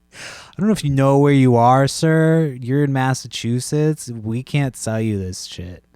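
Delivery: high, loud mocking cashier, slowing at the end. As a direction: ham up the snooty clerk talking down to him. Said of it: "She's like".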